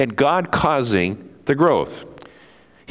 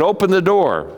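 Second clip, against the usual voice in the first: wolf voice; 7 semitones higher, 3 dB louder than usual. Acted.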